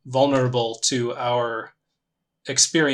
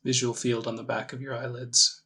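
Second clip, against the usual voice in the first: calm meditation guide, long pauses between phrases; measured, gently leading meditation voice; guided meditation; 5 dB quieter than usual. Acted. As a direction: ease them into it with unhurried, spaced-out instructions.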